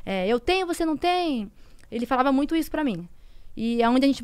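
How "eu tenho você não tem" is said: higher-pitched imitation of bragging; mocking taunt. Woman quoting what he often told her, mocking taunt. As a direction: rub it in, mimicking the boaster.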